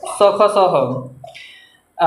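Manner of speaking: letters dropped one at a time with long gaps; slow listing. Shown as a demonstration. Teacher dictating the fricatives to the class, very slow. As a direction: tick off each letter slowly. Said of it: "संघर्षी हो गया स".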